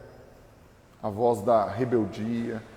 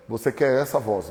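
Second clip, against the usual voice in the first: normal talking voice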